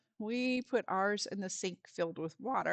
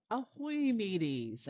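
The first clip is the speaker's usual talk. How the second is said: pirate greeting; slower than usual. Acted. Pirate greeting opening the session.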